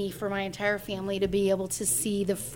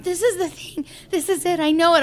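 high, rising to loud joyful conviction; excited certainty; 8 semitones higher, 6 dB louder than usual. Retold or imitated. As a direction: insist with thrilled certainty. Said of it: "started crying and freaking out".

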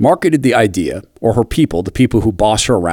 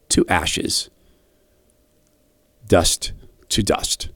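solemn whisper; 6 semitones lower, 7 dB quieter, much slower than usual. Acted. Solemn funeral words, whispered.

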